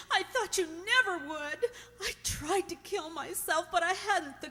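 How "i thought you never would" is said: laughing and crying at once through the words; tearful relief. Acted. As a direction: sob it out with relief, half laughing. Mary reunited with Tom, weeping.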